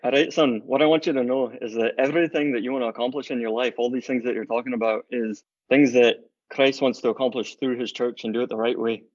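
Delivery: light imitation of a Glasgow Scottish dad, a bit quick; a hint of a Scottish father's burr, half-joking; dad's Glasgow accent. Son imitating his dad's Scottish accent for the hosts, lightly Glasgow. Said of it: "say that in your dad's accent".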